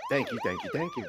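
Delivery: high, squeaky mock-grand thank yous; falsetto thanks. Co-host jokingly accepts the handover, squeaky falsetto. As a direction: thank the room in a silly squeaky voice. Takes the mic playfully.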